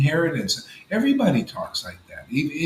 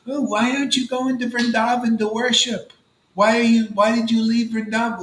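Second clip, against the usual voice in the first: imitated challenging ex-wife; 7 semitones higher than usual. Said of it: "even my ex-wife who left here said".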